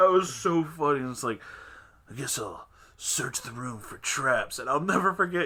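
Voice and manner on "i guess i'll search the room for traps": imitated angsty anime-style voice. Recalling a friend getting in character, the speaker imitates Kay's put-on angsty anime voice. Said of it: "puts on his angsty anime voice".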